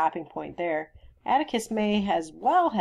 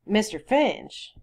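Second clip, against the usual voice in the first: slow, deliberate form of address; stolid; 5 semitones higher, 3 dB louder, slower than usual. Acted. Sheriff addressing Mister Finch, stolidly. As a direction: set the name down slowly and firmly. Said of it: "Mister Tate said stolidly".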